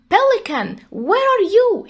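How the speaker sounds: high-pitched acted call for someone missing. Bear calls to the missing pelican, calling out. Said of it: "هنا طبعًا بينده على البليكان أو البجعة".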